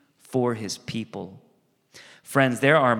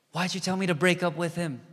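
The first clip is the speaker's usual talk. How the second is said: whiny complaint; 6 semitones higher than usual. Retold or imitated. Acting out a friend who complains.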